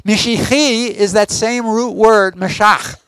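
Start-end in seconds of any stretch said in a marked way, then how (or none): 2.4-3.0 Mashach ending on a rough kh from the throat; throaty kh. Shown as a demonstration. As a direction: say Mashach, finishing with the throaty K H sound. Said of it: "It has the K H sound".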